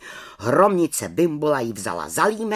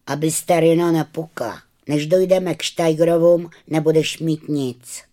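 teasing schoolboy; 4 semitones higher, 6 dB louder than usual. Acted. Kája teases Terina.

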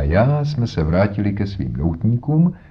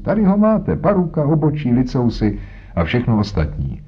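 high, gleeful showing of the wig; proud of his trick; playful showing off; 6 semitones higher than usual. Acted. Holmes shows the wig.

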